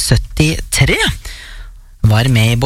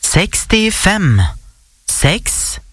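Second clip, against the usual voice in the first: bingo caller; much slower than usual. Real, not acted. Calls out bingo numbers.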